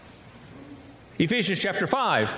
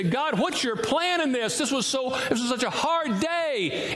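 mock weeping prayer; 7 semitones higher than usual. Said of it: "Christians at night weep and say".

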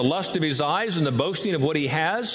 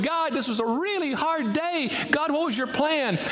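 higher, pleading cry to God; weeping prayer; 9 semitones higher than usual. Acted. Believer praying at night, a touch of weeping. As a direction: plead through tears, lightly acted. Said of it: "you weep going".

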